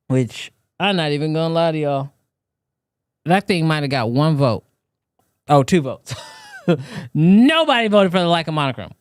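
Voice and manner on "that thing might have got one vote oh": normal talking voice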